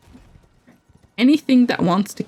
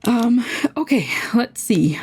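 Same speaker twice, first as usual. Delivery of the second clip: whispering; 3 semitones higher than usual. Real, not acted. Muttering to self.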